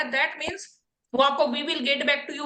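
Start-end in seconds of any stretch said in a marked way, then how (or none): 1.4-2.5 slow, drawn-out interviewer dismissal; mock interviewer brush-off. Teacher mocking the interviewer for students, slow brush-off. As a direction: drag it out like a bored interviewer. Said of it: "बोलने वाला है".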